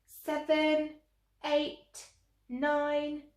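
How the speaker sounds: high, measured clock chimes; clock counting. A narrator's reading. Narrator counting the clock striking midnight, high tolling. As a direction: toll each number like a bell.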